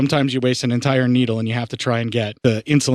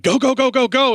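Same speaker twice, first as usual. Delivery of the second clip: eager go voice; 11 semitones higher than usual. Retold or imitated. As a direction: rev up like a restless body. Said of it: "the rest of me is like".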